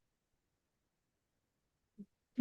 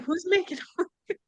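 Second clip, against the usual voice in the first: high mock voice; 11 semitones higher, 5 dB quieter than usual. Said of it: "And I'm like".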